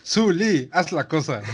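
imitación juguetona, con la voz más aguda; Barrick. Retold or imitated. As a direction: suelta la frase célebre del personaje en tono alto. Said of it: "¿Cómo es?". (imitando en broma a un personaje animado)

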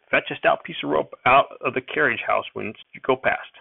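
put-on lightly called old grandfather. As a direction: call it after the boy.

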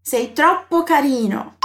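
slow, clearly spaced words; slow model phrase. Shown as a demonstration. Teacher shows a compliment in Italian, slowly. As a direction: lay each word out for the learner. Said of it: "como que você diz".

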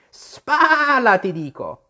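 high, loud cry dropping away at the end; insistent order. Acted. The sheep insists Alice keep rowing, high insistent shout.

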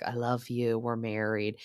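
husband clinging to the marriage, understated earnest plea; husband's earnest plea. Retold or imitated. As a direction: mildly imitate him pleading his love. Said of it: "he's still trying to do the emotional".

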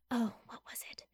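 whispering to herself; hushed, muttered aside; whispered aside. Real, not acted. Trying to recall, aside.

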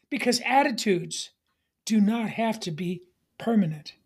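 hushed, confiding whisper. Acted. Preacher whispering to his congregation that attitudes can change, hushed. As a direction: drop to a whisper to let it sink in.

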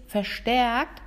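"verstärkt" stretched out slowly and stressed. Shown as a demonstration. Teacher qualifying which muscle is active, stressing "verstärkt". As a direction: lean slowly on the word "verstärkt". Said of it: "ich betone verstärkt".

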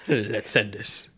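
put-on slow, quiet German-accented English. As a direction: drawl it with a thick German accent. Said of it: "todesten deutschen Akzent".

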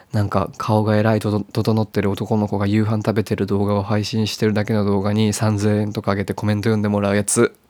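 all in one breath. Real, not acted. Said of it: "一息で言った。".

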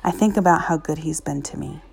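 reading a story aloud; story narration. Acted. Reads an inspirational story aloud.

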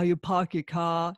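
light Boston accent demo; quick imitation of a Boston accent. Shown as a demonstration. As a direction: say it with a touch of Boston. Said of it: "even in Boston, you know, they've got".

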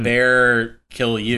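slow, heavy mock Russian accent; fake Russian accent. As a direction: drag it out in a hammy Russian accent. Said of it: "In Russia".

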